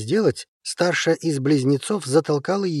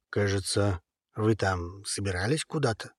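softer, clenched-teeth grumble; through gritted teeth; 5 semitones lower, 6 dB quieter than usual. A narrator's reading. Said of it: "процедил сквозь зубы".

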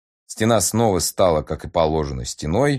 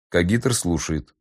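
slow, cold computer voice; disdainful synthetic voice; slower than usual. Acted. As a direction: speak like a scornful machine. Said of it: "брезгливый синтезированный голос".

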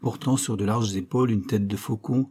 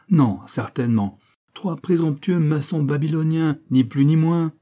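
sarcastic rebuke; 2 semitones higher than usual. Acted.

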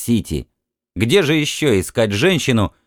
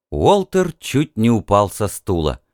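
usual speaking voice

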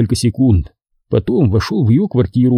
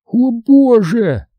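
long, high-pitched moan; mock moan; 12 semitones higher, much slower than usual. Woman lamenting her kidnapped cat, high drawn-out moan. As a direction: draw it out in a high theatrical groan. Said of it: "Простонала она".

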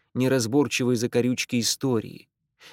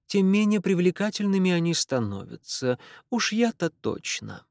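lilting Irish woman's voice; dry, in an Irish accent; 4 semitones higher than usual. Acted. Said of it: "сильный ирландский акцент".

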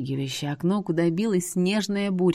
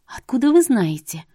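higher, louder surprised question; startled; 5 semitones higher, 5 dB louder than usual. A narrator's reading. Heroine startled the seer knows her home, surprised. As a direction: blurt it out in surprise. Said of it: "от неожиданности".

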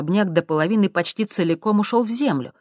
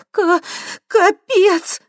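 much higher, louder, breathless; panting; 7 dB louder, much slower than usual. A narrator's reading. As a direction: gasp it while running. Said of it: "пыхтела Светка". (запыхавшись, высоко)

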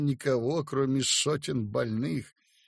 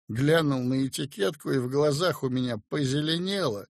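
plain reading voice

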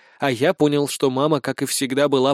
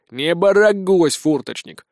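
shushing; 2 semitones higher, slower than usual. A narrator's reading. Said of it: "шикнул на него".

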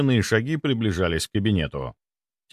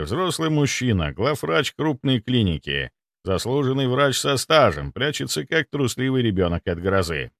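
ordinary delivery, nothing marked

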